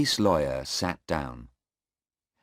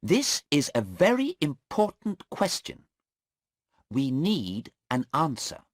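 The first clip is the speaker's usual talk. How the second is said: sharp, much higher and louder; angry lawyer; 11 semitones higher, 3 dB louder than usual. Acted. Mister Cheng angrily insisting the policeman must answer. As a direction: insist hard in court.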